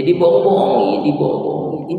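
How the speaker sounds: high, loud mocking voice. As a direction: sneer the word out. Mocking how Christians are fooled. (mengejek dengan suara tinggi)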